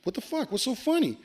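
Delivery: high-pitched, mildly irritated retort; retold annoyed challenge; getting mad. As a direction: demand it with rising irritation. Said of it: "I'm starting getting, like, mad".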